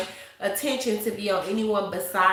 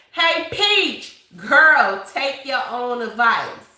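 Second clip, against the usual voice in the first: sassy call-out; 6 dB louder, much slower than usual. Real, not acted. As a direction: call her out with loud attitude. Calling out Peach, scolding her.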